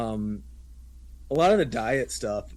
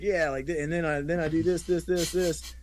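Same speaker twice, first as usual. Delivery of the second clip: slightly raised sing-song listing; lightly imitated enthusiast rattling through a list; mimicked workflow guy; 4 semitones higher than usual. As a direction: reel off the steps in a mock recital. Imitating guys reciting endless steps.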